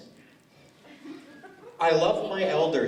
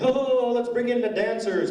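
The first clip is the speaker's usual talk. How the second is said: grand announcement; 8 semitones higher than usual. Retold or imitated. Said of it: "They didn't say".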